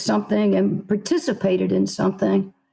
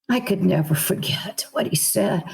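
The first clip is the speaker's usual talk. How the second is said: hushed whisper; 2 semitones lower than usual. Real, not acted. Emotional confession to interviewer.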